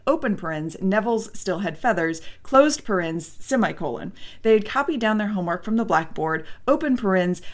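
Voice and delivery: reading with punctuation spoken. Shown as a demonstration. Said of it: "throw in the punctuation".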